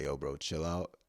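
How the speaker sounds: low-pitched, easygoing appeal; understated, level de-escalation; retold calm reply. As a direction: talk someone down without raising the voice. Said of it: "I said it just like that".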